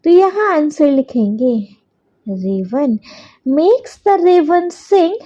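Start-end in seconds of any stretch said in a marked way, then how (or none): 2.2-5.2 very slow, word by word for copying down; slow dictation. Shown as a demonstration. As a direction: dictate it so children can write along. Dictating fourth answer.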